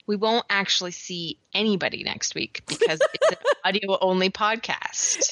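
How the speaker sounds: laughing through a joke on herself. Real, not acted. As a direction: giggle through the line. Joking about her own sign-off.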